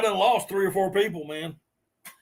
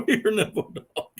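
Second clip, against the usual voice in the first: words squeezed out through real laughter; laughing hard; 3 semitones higher than usual. Real, not acted. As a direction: barely get it out for laughing. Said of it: "I'm laughing so hard".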